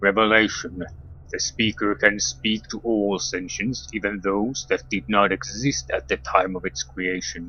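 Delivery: deep, hushed, otherworldly speaking voice. A vibrating crystal answers a question, in a deep voice. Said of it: "then the deep voice speaks".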